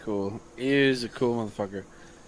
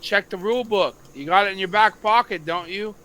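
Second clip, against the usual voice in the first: retold yell; 5 semitones higher, 3 dB louder than usual. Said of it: "You know, I yelled".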